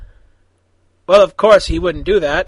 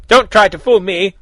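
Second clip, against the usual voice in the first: mild yell; 4 dB louder than usual. Acted. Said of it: "Raven yelled back".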